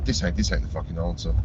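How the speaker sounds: ordinary delivery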